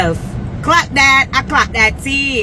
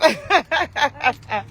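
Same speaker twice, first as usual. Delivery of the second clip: laughing; 3 semitones higher, 4 dB quieter than usual. Real, not acted. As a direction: run of real chuckles. Laughs after own joke.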